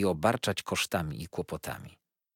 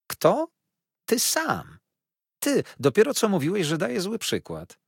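much higher, louder hurt protest; indignant outcry; 11 semitones higher, 5 dB louder than usual. A narrator's reading. Offended wife crying out at her husband, much higher and louder. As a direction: fling the accusation back at him.

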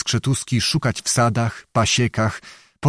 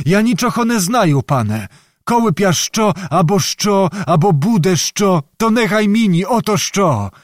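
put-on high-pitched, protesting old peasant; evasive old beggar; 8 semitones higher than usual. Old beggar dodges questions under threat of hanging, high and protesting. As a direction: protest helpless ignorance in a high voice.

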